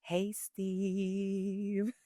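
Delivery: businesslike "Hey, Steve"; brisk work greeting. Shown as a demonstration. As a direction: greet a colleague in work mode. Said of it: "I'm not out in the world saying".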